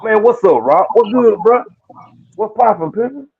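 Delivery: high-pitched hyped welcome; excited greeting. Real, not acted. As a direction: hype up your friend. Greeting friend joining the call.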